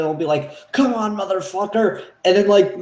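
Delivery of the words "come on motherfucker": acted challenge. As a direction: play at daring a monster. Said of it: "someone will start to challenge the Predator".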